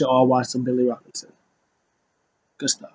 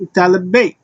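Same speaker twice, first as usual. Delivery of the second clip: higher ring-announcer call of the name; 5 semitones higher than usual. Retold or imitated. Announcing Tyler Bate's entrance, mock announcer call.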